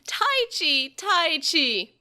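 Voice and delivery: high loud creature call. A narrator's reading. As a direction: call his name in a creature voice. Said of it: "And it spoke".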